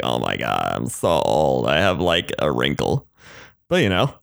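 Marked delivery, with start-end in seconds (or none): 0.0-3.1 hammed-up moan about a wrinkle; mock whiny old-complainer. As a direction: groan it like a dramatic complainer. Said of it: "those people like".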